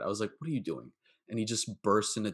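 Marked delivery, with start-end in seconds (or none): 0.4-0.9 gentle concerned question. Retold or imitated. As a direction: ask it gently, a little lower. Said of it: "I said it like that".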